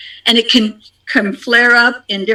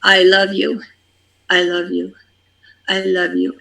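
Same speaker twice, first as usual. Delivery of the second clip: tender prayer. Shown as a demonstration. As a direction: say it gently to yourself. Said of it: "the last thing you say is".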